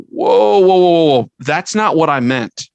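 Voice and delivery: catching a mistake in your own email; half-mock alarm at a bad draft; startled whoa. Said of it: "and I'll go".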